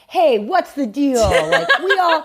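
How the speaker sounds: put-on old Hollywood mid-Atlantic accent, giggling through it. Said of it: "In your mid-Atlantic accent".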